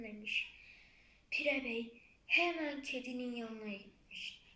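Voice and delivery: usual speaking voice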